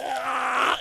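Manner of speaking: high mock retch; imitated puking. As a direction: act out vomiting into a purse. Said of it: "And she opens the purse".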